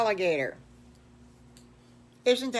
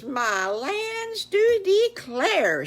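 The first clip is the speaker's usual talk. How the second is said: much higher, slow, loud fussy exclamation; astonished Mommy Piggy; 12 semitones higher, 6 dB louder, much slower than usual. Acted. Mommy Piggy amazed by the alligator's cousin, high slow cry. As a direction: gasp it out like a flustered old lady.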